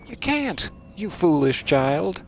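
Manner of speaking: high then slow mocking scold; scolding elder. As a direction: scold like a smug mentor. Game scolding him, voiced.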